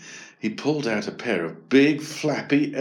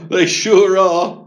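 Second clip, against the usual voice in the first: loud, higher laughing reply from Dad; laugh, then call it out amused; 8 semitones higher, 9 dB louder, slower than usual. A narrator's reading. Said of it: "laughed Dad".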